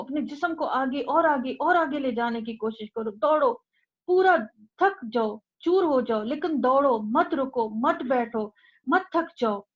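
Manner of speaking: urgent rallying exhortation in short, punched bursts; fervent sermon pushing listeners to keep running; impassioned preaching. Acted. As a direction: urge them on like runners in a race, hitting the commands hard. Exhorts listeners like runners in a race.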